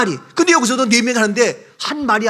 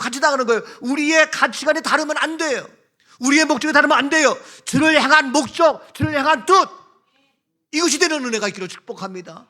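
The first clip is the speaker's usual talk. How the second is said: fiery preaching; 5 semitones higher than usual. Acted. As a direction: drive each point home to the pews. Preaches to congregation.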